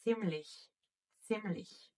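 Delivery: Ziemlich with ts and soft ch, twice; German Ziemlich. Shown as a demonstration. Teacher reading the board word aloud, model repetition. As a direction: model Ziemlich as tseem-lich. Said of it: "Because we have this letter in front".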